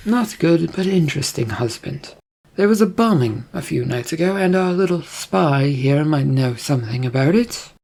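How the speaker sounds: lightly voiced queen, pointed; hint at suspicion as the queen; a touch of regal accusation; insinuating queen.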